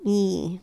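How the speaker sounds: soft, closed "eh" vowel; "eh" with a barely opened mouth; linear, not open. Shown as a demonstration. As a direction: keep "eh" tight and narrow. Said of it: "Like, it's all very".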